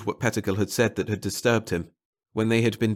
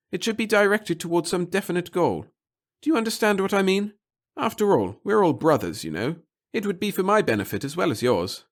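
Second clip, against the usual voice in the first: higher, louder fussy official; nervous official; 10 semitones higher, 3 dB louder than usual. Acted. Pettigill cautions Bartle in a higher, fussy voice. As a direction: fuss and caution him.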